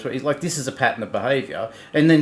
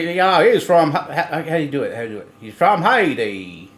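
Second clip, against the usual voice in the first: put-on Haitian accent; 3 semitones higher, 4 dB louder than usual. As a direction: try a Haitian accent and falter. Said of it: "She's trying to do his accent".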